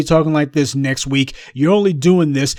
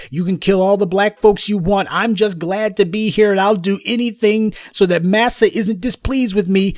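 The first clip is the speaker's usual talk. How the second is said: higher, simpering mock servant; mock servile voice; 5 semitones higher than usual. Commentator mocking player's imagined groveling, higher simpering voice. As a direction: lightly mimic an eager-to-please lackey. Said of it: "was not willing to say what I just told you".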